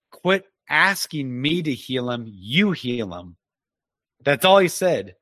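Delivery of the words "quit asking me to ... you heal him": slow, measured admonishment, dropping lower at the end; retold rebuke. The Lord answers a sobbing father, slow rebuke retold. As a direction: rebuke slowly, each word weighed. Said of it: "the Lord rebukes me and admonishes".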